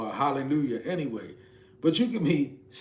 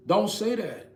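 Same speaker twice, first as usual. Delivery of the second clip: higher, louder pleading rebuke; urgent plea; 7 semitones higher, 4 dB louder than usual. Real, not acted. Preacher stopping listeners from speaking defeat, urgent loud plea. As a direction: cut them off before they give up.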